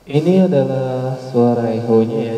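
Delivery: cathedral echo. Shown as a demonstration. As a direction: voice through echo effect. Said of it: "jadi sudah saya aktifkan".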